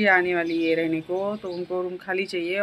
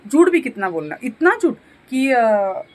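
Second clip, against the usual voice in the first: louder, exasperated complaint; fuming; 3 semitones higher, 6 dB louder than usual. Real, not acted. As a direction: hit झूठ hard in disgust. Fuming about the lies. (गुस्से में ज़ोर से)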